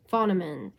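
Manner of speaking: "Phonemin" tried with an N ending; mispronounced attempt. Real, not acted. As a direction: say "Phonemin" wrongly, falling onto "-min". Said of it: "I can't pronounce it".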